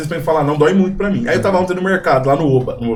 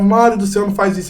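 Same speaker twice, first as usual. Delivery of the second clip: higher, worried mother's plea; imitating pleading mother; 6 semitones higher than usual. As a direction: lightly voice a fretting mom.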